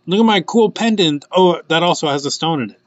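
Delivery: light mocking show-off voice; mock boastful. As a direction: show off like a proud pendant. Pendant personified, bragging about itself.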